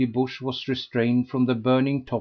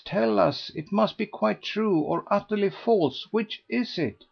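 higher, insistent coaxing voice; pressing society lady; 8 semitones higher than usual. A narrator's reading. Lady Busshe pressing Mrs Mountstuart to tell all, insistent. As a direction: coax the whole story out of her.

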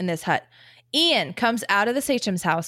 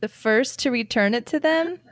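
puzzled, giggling read of a baffling line; laughing confused reading. Real, not acted. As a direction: read it like it makes no sense, laughing. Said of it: "I don't know what the words mean".

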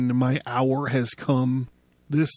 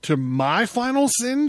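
even higher, incredulous rising shout; 11 semitones higher, 3 dB louder than usual. Acted. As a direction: throw the question up, louder. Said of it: "shouted Zarathustra".

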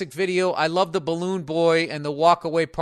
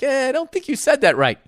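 doubtful reaction; 10 semitones higher, 6 dB louder than usual. Retold or imitated. Acting out his doubtful reaction.

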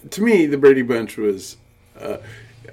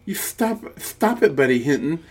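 defensive big brother; 5 semitones higher than usual. Retold or imitated. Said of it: "Peter defends her".

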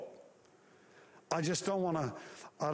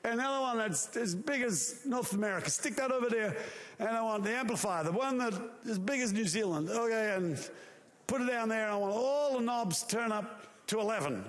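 God giving orders; 6 semitones higher than usual. Acted. God ordering angels to set up speakers, higher and commanding. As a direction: boss the roadies around like a tour manager. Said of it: "He said".

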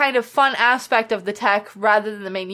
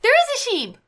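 much higher, delighted; echoing the sheep photo with delight; excited squeal; 13 semitones higher than usual. Real, not acted. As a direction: squeal it like you just spotted it.

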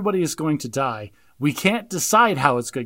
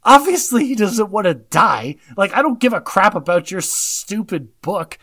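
louder, sarcastic exasperation; exasperated retort; 4 semitones higher, 4 dB louder, slower than usual. Retold or imitated. Viewer retorting to the professor on screen, mock exasperated. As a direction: scoff at the stupid book. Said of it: "I'm like".

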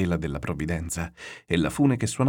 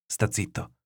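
whispered hush; soft, whispered plea for silence; changed voice; 6 dB quieter, slower than usual. A narrator's reading. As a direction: hush him softly, all breath. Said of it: "con la voce mutata".

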